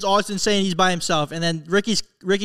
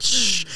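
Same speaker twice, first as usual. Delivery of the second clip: steam hissing. Retold or imitated. Imitates steam boiling off head.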